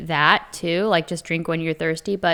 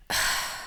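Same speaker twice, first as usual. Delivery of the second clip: dramatic sigh; 7 dB quieter than usual. Shown as a demonstration. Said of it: "I just start dramatically sighing".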